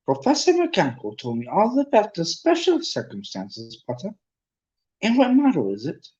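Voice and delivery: high, swooping squeaky professor voice. A narrator's reading. Professor asking a pupil about his broom, high squeaky voice. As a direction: pipe up high, like a small eager teacher. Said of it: "he squeaked".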